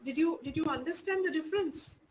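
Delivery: ordinary talk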